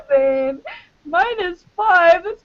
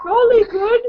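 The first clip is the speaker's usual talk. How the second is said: higher-pitched attempt at a British accent; 7 semitones higher than usual. Shown as a demonstration. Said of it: "I wanna hear M's British accent".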